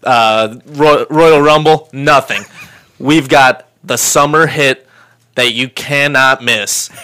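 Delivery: ringmaster. Acted. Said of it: "that promo".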